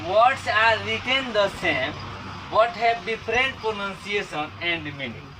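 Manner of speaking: reads the definition word by word, very slowly; slow dictation. Acted. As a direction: dictate it slowly so students can write. (धीरे-धीरे बोलकर लिखवाना)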